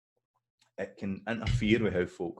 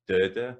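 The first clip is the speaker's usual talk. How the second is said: da-da with the first da strong; stress on first beat; 7 dB louder than usual. Shown as a demonstration. Teacher beating the word's rhythm, da-da stressed at the start. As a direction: tap out da-da, first beat heavy. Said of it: "so the stress is in the, at the start".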